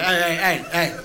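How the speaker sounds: short repeated word-barks; idle dog barking. Acted. Dog with nothing to do, barking at nobody. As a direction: bark on and on for no reason. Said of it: "They got nothing to do with themselves".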